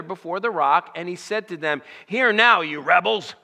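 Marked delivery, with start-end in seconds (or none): 2.0-3.3 loud, sharp rebuke from Moses; yelling at the rebels. Retold or imitated. Moses yelling at the complaining people, a loud rebuke. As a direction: bark it at the complaining crowd. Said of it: "he just yells at them".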